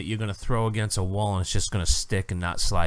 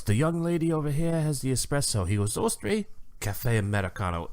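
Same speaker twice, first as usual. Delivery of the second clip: mock disgusted waiter; 6 semitones higher, 5 dB quieter than usual. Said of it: "he walked away in disgust".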